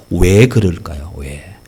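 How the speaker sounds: usual speaking voice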